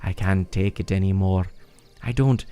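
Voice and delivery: lightly voiced exasperated kid, leaping high at times; mildly hammed-up complaining; whiny Rito villager. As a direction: grumble dramatically about an annoying parent. Voices Faison complaining about mom.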